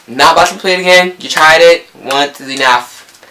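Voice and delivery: high, loud refusal, slowing on the last words; firm rejection. Retold or imitated. Girl turning down the player's apology, firm and indignant. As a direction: shut him down, starting high and loud.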